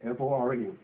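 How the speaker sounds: slow, spelling out each word; dictating. Shown as a demonstration. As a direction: dictate it for the notes. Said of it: "Put down the word".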